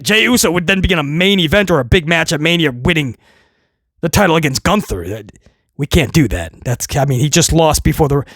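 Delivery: low, faltering employee; timid underling. Retold or imitated. Writer reminding the boss of a loss, low and hesitant. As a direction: object meekly in a low, halting voice.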